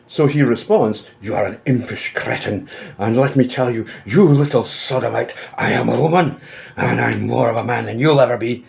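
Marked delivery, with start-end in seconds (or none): 1.2-8.6 theatrical reading of an enraged message; pompous, mock-furious tirade; mock rage. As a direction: read it out with hammed-up indignation, leaning on the insults. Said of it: "you can feel the rage".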